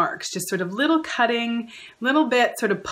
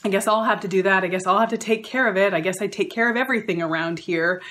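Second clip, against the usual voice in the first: grudging martyr; faster than usual. Retold or imitated. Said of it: "they'll say something like".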